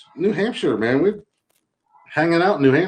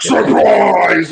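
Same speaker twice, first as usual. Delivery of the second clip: mock bear surprise; 3 semitones higher, 7 dB louder than usual. Bear voiced springing a trick.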